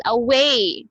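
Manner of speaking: "away" with a full, open "way"; clear pronunciation. Shown as a demonstration. Teacher models a word for students, clear pronunciation. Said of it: "how to visualize a sound".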